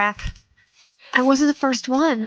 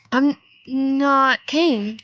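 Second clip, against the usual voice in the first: insist, slower and firmer; a bit louder; 3 semitones higher, much slower than usual. Acted. To the stranger on the phone, slower and a bit louder. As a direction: repeat it slowly, a little louder. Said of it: "I said a bit louder".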